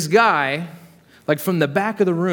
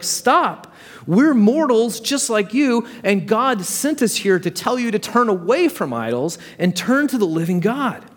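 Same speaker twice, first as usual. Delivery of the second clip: urgent plea; 6 semitones higher than usual. Acted. Paul pleads with worshipping Gentiles.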